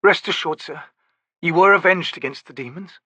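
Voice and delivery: gentle. A narrator's reading. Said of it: "her expression gentle".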